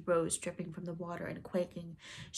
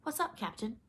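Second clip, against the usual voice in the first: higher-pitched pirate sidekick voice; Smee; 7 semitones higher than usual. A narrator's reading. Smee questions his captain, higher pirate voice. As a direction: ask the boss in a higher voice. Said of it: "said Smee".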